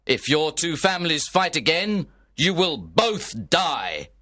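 a prince's measured, angry decree. Acted. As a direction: lay down the law to the feuding lords. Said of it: "He was very angry".

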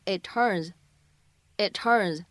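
"it turns" slowly, the t of "it" unreleased; lost plosive, slow. Shown as a demonstration. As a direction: say "it turns" twice, slow, no burst on t. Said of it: "可以有一个失去爆破的处理". (慢读"it turns"，t失去爆破)

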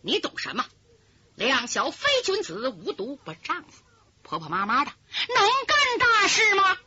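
elder sister berating her weak junior; cold scolding. Acted. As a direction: bite off the rebuke coldly. Schemer slaps and scolds her.

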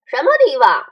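echoed chorus of questions; many voices in unison. A narrator's reading. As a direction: everyone repeats it together. All echo the question.

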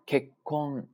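結婚 as kek-kon with a held gap; one-beat pause. Shown as a demonstration. Teacher repeats the word for wedding, held stop. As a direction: hold a silent beat inside 結婚. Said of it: "是不是空了一拍儿啊".

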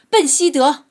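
shrill angry scream at the dog. A narrator's reading. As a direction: scream it in outrage. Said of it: "太太们尖叫着".

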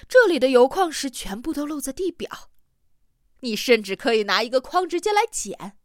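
loud, high-pitched elation; excited exclaiming. Acted. Geologist exulting over surface uranium ore, loud and excited. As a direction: proclaim it loudly, pitch lifted in excitement.

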